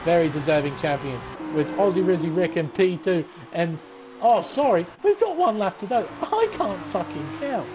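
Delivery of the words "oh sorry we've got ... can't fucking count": raised, exasperated admission; flustered self-correction. Real, not acted. Commentator catching his own lap miscount, flustered. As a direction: own up to a silly mistake, pitch up.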